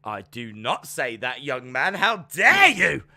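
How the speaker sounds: lightly voiced prim telling-off; mock scolding. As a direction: pretend outrage at a cheeky youngster. Mock scolding a young man.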